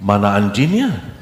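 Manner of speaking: laughing while asking; laughing retort. Retold or imitated. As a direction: tease back with a chuckle. (bertanya sambil tertawa)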